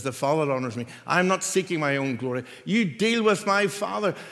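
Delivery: loud, ringing declaration; forceful Jesus voice. Acted. Preacher voicing Jesus answering his accusers, loud and firm. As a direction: proclaim it with full force.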